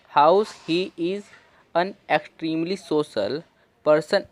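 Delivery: slow reading in three-word chunks; slow phrase reading. Shown as a demonstration. Teacher reading the article aloud slowly in chunks. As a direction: read each chunk slowly with pauses between. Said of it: "तीन तीन word करके हम पढ़ेंगे".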